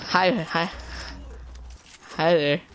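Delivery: robotic, metallic mic sound. Real, not acted. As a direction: speak through a robot filter. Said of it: "Dude, why do you sound like a robot?".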